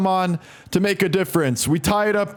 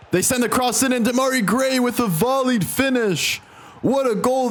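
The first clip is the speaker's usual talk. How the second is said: rising excited call; 5 semitones higher than usual. Real, not acted. Opponent scores a volley.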